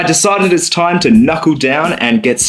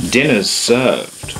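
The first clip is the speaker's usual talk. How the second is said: seductive; much slower than usual. Pretend. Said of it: "The way you just said that".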